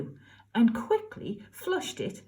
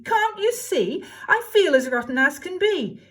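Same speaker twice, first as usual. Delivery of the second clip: whining cry; 8 semitones higher, 5 dB louder than usual. Acted. Cindy complaining to the fairy in a high loud whine. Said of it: "cried Cindy".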